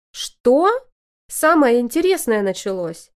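high, thrilled squeal; delighted squeak. A narrator's reading. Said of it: "пищу я в восторге".

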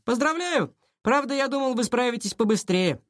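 mock congratulations. A narrator's reading. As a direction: congratulate a rival with lofty sarcasm. Rival mocks the decoded note. (язвительно, свысока)

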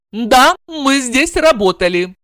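reluctant. A narrator's reading. Blonde reluctantly confirming to the wife. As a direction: admit it unwillingly. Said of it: "нехотя подтвердила".

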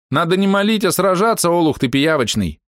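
high, mocking retort; confident scorn. Archer girl mocks the praying healer. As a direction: scold the healer. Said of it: "уверенно заявили".

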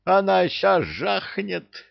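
high, slow panicked imp cry; hysterical squeal. Acted. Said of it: "истерично верещал бесёнок".

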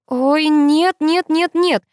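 high, loud panicked no; panicking girl as the phone dies; exclaiming. A narrator's reading. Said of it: "воскликнула я".

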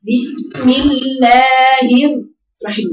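slow recitation with الرحمن read thin as a light ra; wrong demo of the ra. Shown as a demonstration. Teacher demonstrating a wrong reading of the ra to students, slow and deliberate. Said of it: "كأنها عشان بتتبع الهاء المكسورة خطأ".

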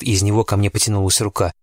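ordinary delivery

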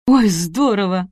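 slow, loud delighted gasp; thrilled and drawn out. Acted. Hostess delighted by tap.

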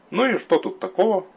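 a mocking voice in his head; inner demon voice. A narrator's reading.

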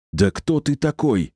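high, slow, losing patience; bursting out in disbelief; exasperated outburst. A narrator's reading. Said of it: "не выдержала она".

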